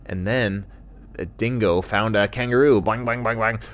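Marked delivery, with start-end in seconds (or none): 2.8-3.6 quick springy boings; bouncing sound. Acted. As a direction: imitate a hopping kangaroo. Imitates kangaroo hopping.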